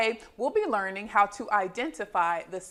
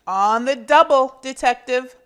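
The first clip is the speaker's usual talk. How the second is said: a touch of a keen cook, louder; eager diner owner; 3 semitones higher, 10 dB louder than usual. Acted. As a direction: answer brightly, ready to serve. Dave answering eagerly.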